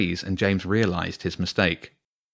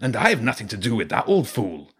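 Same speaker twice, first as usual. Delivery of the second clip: Zen; 3 semitones higher than usual. A narrator's reading. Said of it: "the rat called Zen said".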